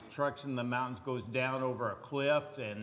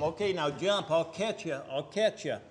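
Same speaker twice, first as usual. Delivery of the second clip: encouraging; 4 semitones higher, 5 dB louder than usual. Retold or imitated. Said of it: "he'd tell 'em".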